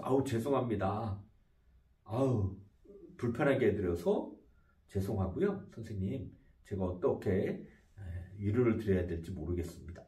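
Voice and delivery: low, soft and sincerely sorry; gentle caring apology; warm apology. Retold or imitated. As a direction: comfort the upset customer. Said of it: "이렇게 따뜻한 표현을 할 겁니다".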